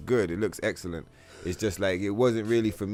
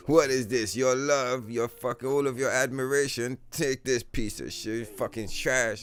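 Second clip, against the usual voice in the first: mock dismissive studio; 3 semitones higher than usual. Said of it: "They were like".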